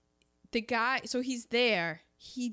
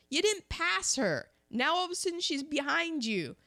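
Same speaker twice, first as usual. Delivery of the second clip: mock exasperated lecture; 6 semitones higher than usual. Mocking the movie's guards.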